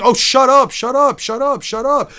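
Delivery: hammed-up shouting quote; mocking quote. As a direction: mimic the characters yelling shut up. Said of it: "everybody's always saying".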